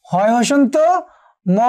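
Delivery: হয় হসন্ত, pause, then a separate ম; broken into parts. Shown as a demonstration. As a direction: split হয় হসন্ত and ম with a clear gap. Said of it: "প্রত্যেকটি যদি আমরা ভেঙে ফেলি".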